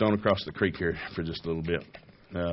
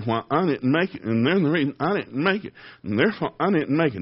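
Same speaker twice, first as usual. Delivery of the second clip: mock whiny excuse, pitched up; whiny excuse maker; 5 semitones higher than usual. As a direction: mimic someone blaming others.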